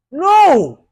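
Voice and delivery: a loud, high, emphatic no. Real, not acted. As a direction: shut the idea down hard. Rejecting critics' demand, heated rant.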